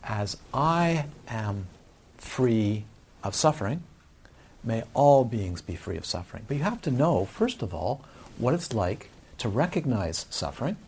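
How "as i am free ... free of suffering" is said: slow, measured recitation; slow, solemn recited vow; reciting a formula. Shown as a demonstration. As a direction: intone it slowly like a blessing. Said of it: "So the formula is".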